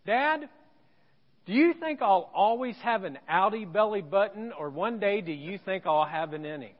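put-on seven-year-old daughter. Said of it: "she says this".

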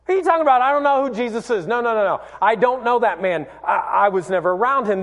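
flustered denial. Retold or imitated. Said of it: "And Peter's like".

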